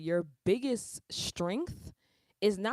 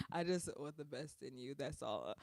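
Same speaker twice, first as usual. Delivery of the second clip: soft, low imitated self-justification; mock sincerity; 4 semitones lower, 9 dB quieter than usual. Imitating people excusing their zodiac criticism, softly mock-sincere. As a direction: play the innocent well-wisher, hushed and low.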